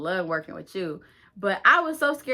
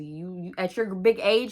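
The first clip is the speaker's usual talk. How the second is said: louder, mocking emphasis on age; sassy jab; 4 dB louder than usual. Teen cussing out older girl, sassy jab. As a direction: talk down to her.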